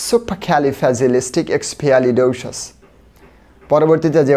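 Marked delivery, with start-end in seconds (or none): 0.1-2.6 the whole word in one slow flowing run. Shown as a demonstration. Teacher repeating the joined word for students, slow. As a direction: join it all together, still slow. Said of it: "আবার একবার বলি".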